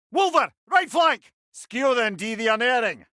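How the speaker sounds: loud, high shouted enemy warning; battle callout. Acted. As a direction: call out the threats over the din. Combat callout of enemies.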